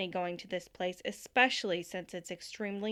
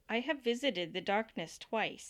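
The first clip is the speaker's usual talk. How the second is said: attempted Dakota accent. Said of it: "You're just doing it in a Jersey accent".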